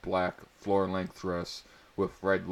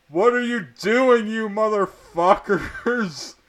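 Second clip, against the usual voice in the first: angry; 14 semitones higher, 9 dB louder, slower than usual. A narrator's reading. Dumbledore catching them.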